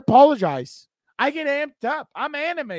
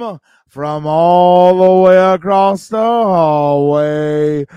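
calling across the hall; 3 semitones lower, 11 dB louder, slower than usual. Real, not acted. Host yelling across the hallway for Nando to play the music, loud call.

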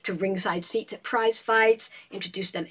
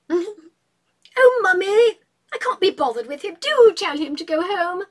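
much higher, louder petulant whine; a spoiled girl begging Mummy to send him away; whiny daughter; 9 semitones higher, 7 dB louder, slower than usual. Acted. Julia begs her mother to send Rex home, high whine.

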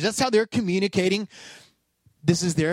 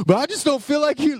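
mock whiny complaint; 6 semitones higher than usual. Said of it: "And you're like".

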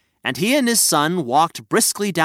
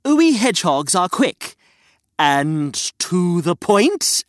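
hedgehog voice; 2 semitones higher, slower than usual. Acted. Hedgehog character boasts.

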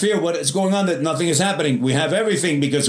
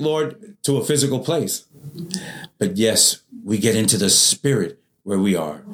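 lower, hushed prayer voice; closing prayer; 3 semitones lower than usual. Acted. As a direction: pray earnestly before the congregation. Pastor closes in prayer.

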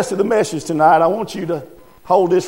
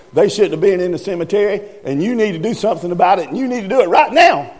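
indignant demand; 3 semitones higher, faster than usual. Acted. Churchgoer demanding the preacher punish the teens, indignant and insistent. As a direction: push hard for punishment right now.

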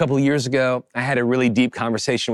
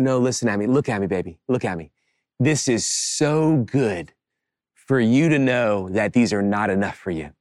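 lower, gentle retold fatherly reassurance; tender reassurance; 4 semitones lower than usual. Father reassuring his daughter that toys aren't enough, tenderly.

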